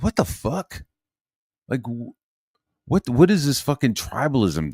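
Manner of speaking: high, stunned disbelief; a sudden high squeak of shock; incredulous what the fuck. Retold or imitated. Reacting to her stream comment, high incredulous disbelief.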